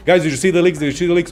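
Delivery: hammed-up eager gamer; mock hyped fan. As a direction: act out a fan who can't contain the hype. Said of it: "we are so back".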